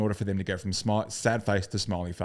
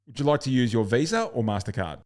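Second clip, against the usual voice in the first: assured, a bit louder close; confident sales ask; 3 semitones higher, 4 dB louder than usual. Shown as a demonstration. Coach demonstrating the closing question to a client, calm and assured. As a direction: ask it like it's already decided. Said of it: "Don't get weird".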